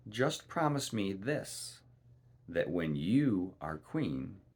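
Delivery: slow, sly little man; the little man demanding the firstborn, slow and scheming; little man's slow bargain. Acted. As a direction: draw out the promise like a trickster. Little man names his price.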